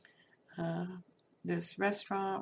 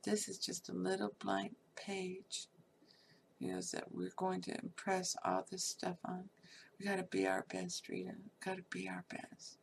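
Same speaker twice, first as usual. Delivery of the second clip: tender hushed words; 6 dB quieter than usual. Retold or imitated. Husband holding newborn daughter.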